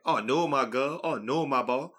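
lightly put-on Northside Lafayette accent. Friend showing how Northside Lafayette people talk, mild imitated accent. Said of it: "They clearly have an accent on Northside Lafayette".

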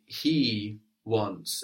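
"he" drawn out and emphasized; stress on he. Shown as a demonstration. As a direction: lean on "he" before "wants". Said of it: "we're stressing the word for he".

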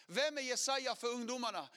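loud, rising preacher's call; preaching to the crowd; preacher's challenge. Retold or imitated. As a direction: hammer each question like a preacher.

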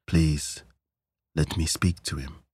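softly spoken, kindly plea. A narrator's reading. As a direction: ask gently and kindly. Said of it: "said softly and kindly".

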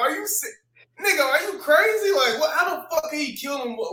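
high, mock baffled questioning; incredulous. Arguing with a commenter online, high and baffled. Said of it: "I was like".

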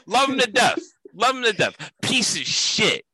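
deadpan Italian-American tough-guy praise; Italian-American wiseguy. Acted. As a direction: gush then curse in an Italian-American accent. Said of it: "No change in tone".

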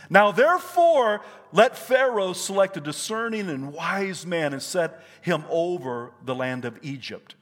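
emphatic opening, then declamatory reading; forceful pulpit Bible reading; preached scripture. Acted. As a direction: proclaim the verse, punching the first words.

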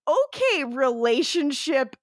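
high opening, then slow mocking drawl; sarcastic. Podcaster mocking Klaus's relationship advice, sarcastic. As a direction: draw it out, dripping sarcasm.

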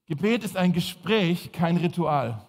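repeated for note-taking; slow, clear repeat to write down; dictating. Shown as a demonstration. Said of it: "schreibt mal auf".

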